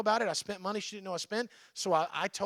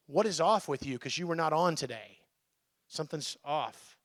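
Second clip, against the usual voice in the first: caring concern; 3 semitones lower than usual. Retold or imitated. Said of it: "close enough to go".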